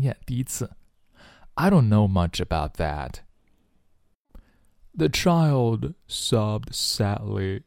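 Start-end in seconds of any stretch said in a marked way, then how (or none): 4.9-7.6 slow, softer mock-sad reading; hammed-up sorrowful read. Shown as a demonstration. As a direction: drag it out like a sad story. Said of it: "小孩伤心着，哽咽着，抽泣着".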